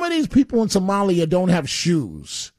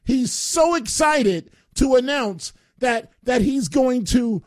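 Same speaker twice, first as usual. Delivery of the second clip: mock excited; 5 semitones higher, slower than usual. Host mocks the mayor's announcement.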